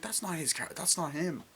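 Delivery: high-pitched imitation of denial; mock insistence. Retelling a character's reaction, high mock insistence.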